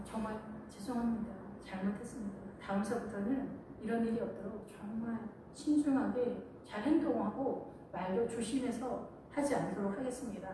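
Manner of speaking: mock tearful apology. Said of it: "더 오버해서 우는 것처럼".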